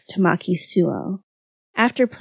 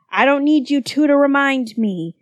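higher-pitched, irritated comeback; exasperated retort in a raised pitch; sharp retort; 6 semitones higher than usual. A narrator's reading. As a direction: throw it back at them, annoyed. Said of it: "retorted Kyoya".

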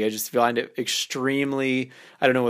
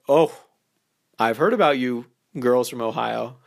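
teasing innuendo. Shown as a demonstration. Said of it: "now you're insinuating something".

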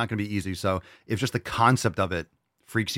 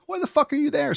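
exasperated yell. Real, not acted. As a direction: yell the question in disbelief. Repeats louder, higher.

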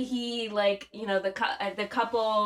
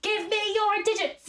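high, slow, hammy demand; Nicolas Cage movie quote; 11 semitones higher, slower than usual. Acted. Friend quotes Cage like a film, hammy demand. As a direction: belt it like an over-the-top movie line. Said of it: "they could be quotes from".

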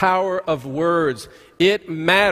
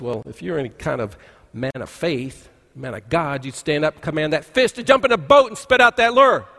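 imitated challenge; 3 semitones lower than usual. Fishing friend dares a man of faith, imitated challenge building up. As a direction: act out a dare, rising in force.

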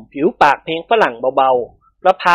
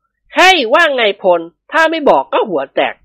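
higher, slow male character; sheepish man consulting a pal; 7 semitones higher, slower than usual. A narrator's reading. Dilek asks Phon about giving in, sheepish appeal. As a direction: consult a friend in a raised voice.

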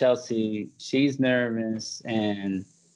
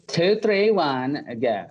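Chelsea; 4 semitones higher, slower than usual. Retold or imitated. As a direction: mimic a nervously formal friend counting off. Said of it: "re-record it with your imitation".

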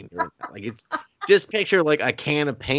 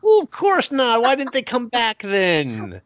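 higher, louder sarcastic retort; mock skeptical leader; 11 semitones higher, 4 dB louder than usual. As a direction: scoff it like a doubting boss. Acted clan leader reply.

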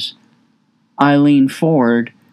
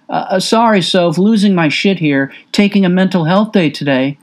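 higher, stammering sarcastic apology; mock flustered excuse; 8 semitones higher than usual. Father mocking what he'd tell his daughter, pitched-up stammering excuse. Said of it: "What am I supposed to say?".

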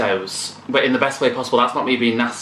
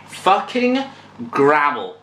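mock growl; much slower than usual. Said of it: "when a singer growls at me".

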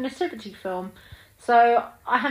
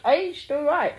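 higher, wry, unimpressed take; grown-up self; 9 semitones higher, slower than usual. Retold or imitated. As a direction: shrug it off like a grown-up. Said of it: "thirty-four-year-old me was going like".

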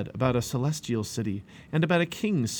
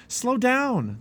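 high-pitched raised yell; 12 semitones higher, 4 dB louder than usual. A narrator's reading. Two boys chasing Christian, yelling. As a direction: yell after a runner. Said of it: "they yelled".

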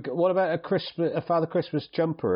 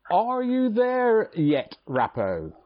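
drawn-out, much higher call; 6 semitones higher, much slower than usual. Real, not acted. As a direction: stretch it out slowly, like calling across a room. Calling in the co-host.

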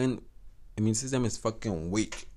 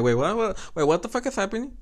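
disbelief; 8 semitones higher than usual. Retold or imitated. Retold reaction to threesome offer.

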